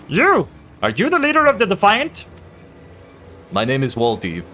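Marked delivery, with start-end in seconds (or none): 0.1-2.3 high, loud sharp challenge; high challenging shout. Acted. NPC confronts the hero.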